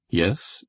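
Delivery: "Yes?" as a questioning prompt; interrogative. A narrator's reading. The colonel queries Blair, interrogative "Yes?". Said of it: "said the colonel interrogatively".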